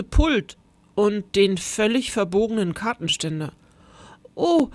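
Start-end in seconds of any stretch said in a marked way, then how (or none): 4.3-4.7 high, slow, sheepish little-man voice; embarrassed. A narrator's reading. Teacher confesses to director, sheepish and high. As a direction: own up shyly in a raised small voice. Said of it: "mit verlegenem Lächeln".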